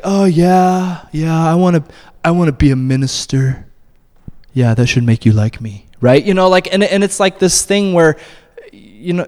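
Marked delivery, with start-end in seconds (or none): 0.0-5.9 mock eager boast. Mocking eager would-be minister.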